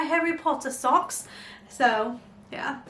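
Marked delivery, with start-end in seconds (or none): 0.0-1.3 British "Harry Potter socks", dropping the r in Potter; put-on British accent. Vlogger announcing today's socks to viewers, mock British accent. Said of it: "doing this accent".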